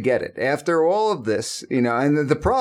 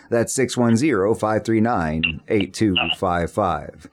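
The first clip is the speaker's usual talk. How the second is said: radio announcer; 5 semitones lower than usual. Acted. Host telling listeners who just tuned in the call-in number, in announcer style. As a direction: read it like a morning talk-radio host.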